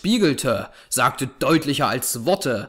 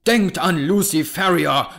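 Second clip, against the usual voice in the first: raised, higher-pitched cry of accusation; threatening call; 4 semitones higher, 4 dB louder than usual. A narrator's reading. Avenger reminding his enemy of Lucy, calling out threateningly. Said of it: "rief ich und hob drohend".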